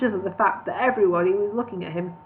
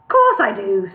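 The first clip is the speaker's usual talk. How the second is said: louder snap; snapped; 7 dB louder, slower than usual. Acted. Elf lord snapping at Bingo, louder. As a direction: bite the answer off. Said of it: "snapped Elsker".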